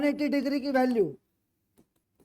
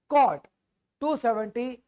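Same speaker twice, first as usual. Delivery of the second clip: loud dictation; 4 dB louder, much slower than usual. Real, not acted. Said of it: "repeating the correction loudly".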